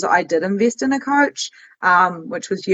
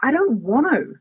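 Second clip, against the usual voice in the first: higher, light brush-off; breezy reply; 6 semitones higher than usual. Retold or imitated. Answering people who call her crazy, higher and breezy. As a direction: shrug it off lightly. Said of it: "I'm like".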